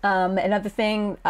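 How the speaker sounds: usual speaking voice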